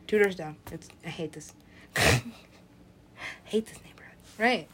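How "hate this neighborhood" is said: whispered grumble. Acted. Resident grumbling about the neighborhood, in a whisper. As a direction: grumble it under your breath.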